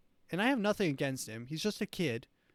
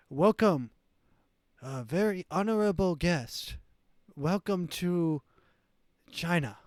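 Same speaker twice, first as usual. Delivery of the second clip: hammed-up Chinese-accented host, raised pitch; mock Chinese accent; 4 semitones higher, 5 dB louder than usual. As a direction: imitate a formal welcome in a fake Chinese accent. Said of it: "she starts matching his accent".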